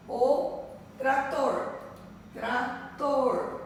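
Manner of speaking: trator with the last syllable tor stressed; teacher showing the oxitone stress. Shown as a demonstration. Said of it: "Qual eu falo mais forte?".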